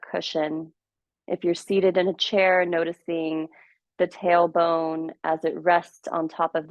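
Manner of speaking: measured meditation guide with long pauses; guided meditation. Acted. Teacher guiding listeners into their practice, calm guided meditation. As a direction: ease them gently into stillness, leaving space between phrases.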